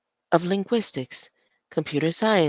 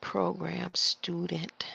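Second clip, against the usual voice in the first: whisper; 5 dB quieter, much slower than usual. Real, not acted. Reading to self, whispered.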